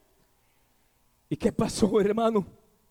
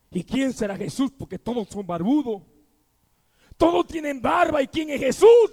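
lightly voiced Zaqueo. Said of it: "Decía Zaqueo".

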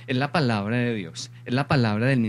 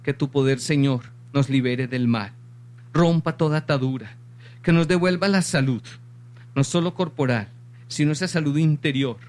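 earnest petition in measured phrases; spoken prayer. Real, not acted. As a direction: pray aloud to God, pausing between each plea. Closes by leading a prayer. (oración de súplica)

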